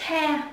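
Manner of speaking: stressed first syllable "Te"; nhấn âm đầu. Shown as a demonstration. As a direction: say "Te" as the strong opening syllable. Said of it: "Nó sẽ đánh trọng âm và âm tiết từ đầu". (nhấn mạnh âm "Te")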